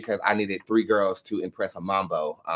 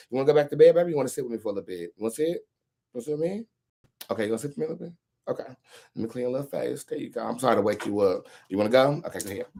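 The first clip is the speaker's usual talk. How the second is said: pet talk; 2 semitones higher, much faster than usual. Real, not acted. Owner to Moon just woken up, gentle pet talk. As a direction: coax gently, with lilting questions.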